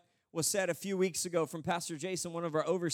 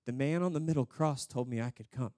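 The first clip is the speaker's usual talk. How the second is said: lower, plain and unadorned answer; simple thief; 6 semitones lower than usual. Acted. Thief explaining his entry to the angel, simply. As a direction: answer simply, without any argument. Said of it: "And he goes".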